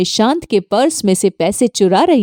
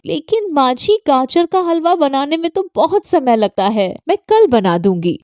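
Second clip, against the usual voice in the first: higher, pleading daughter-in-law; pleading young bahu; 5 semitones higher than usual. Acted. Bahu pleading with her saas about the halwa, higher. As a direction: beg off the task politely.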